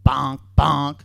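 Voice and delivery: loud vocal knock sound; two loud, punched bonks; imitated knocking. Comedian mimics a knock at the motel door, loud bonks.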